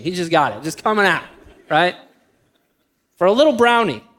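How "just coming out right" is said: normal talking voice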